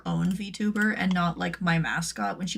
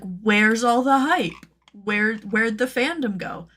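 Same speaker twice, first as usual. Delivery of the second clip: drawn-out, louder mock complaint; mock bewildered latecomer; 3 semitones higher, 5 dB louder, slower than usual. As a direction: wail it slowly, playing clueless. Acts out latecomer seeking hype.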